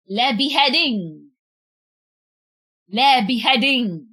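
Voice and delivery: Le beheading said with a mock French le and an English beheading; fake-French Le beheading for a joke. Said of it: "someone being beheaded".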